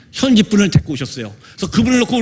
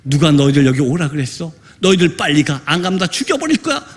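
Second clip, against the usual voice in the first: low, lightly voiced possessed woman; imitated menacing outcry; 5 semitones lower than usual. Possessed woman orders the missionaries out, imitated outcry. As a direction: threaten in a lowered voice, only hinting at the shout. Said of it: "그 자매가 이렇게 외칩니다".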